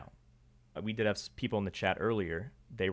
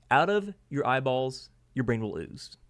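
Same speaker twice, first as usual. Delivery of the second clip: dramatic hype; 3 semitones higher, 5 dB louder than usual. Acted. Playful reversed hype line.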